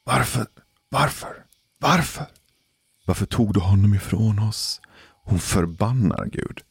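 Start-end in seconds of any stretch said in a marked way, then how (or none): 0.0-4.8 high, pleading mock scream of despair; desperate screaming at God. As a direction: imitate a woman crying out to God in panic. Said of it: "fortsätter skrika mot Gud". (förtvivlat skrik mot Gud)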